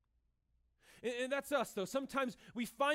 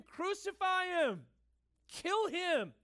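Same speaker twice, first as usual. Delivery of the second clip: higher, louder, slow chant of the crowd; mock mob shout; 7 semitones higher, 4 dB louder, much slower than usual. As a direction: cry out like an angry mob. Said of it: "in the crowd screaming".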